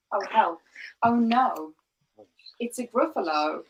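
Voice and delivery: hammed-up alarm at the monster; mock fright. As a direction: gasp it out like a scared little mouse. Mouse's mock alarm in story.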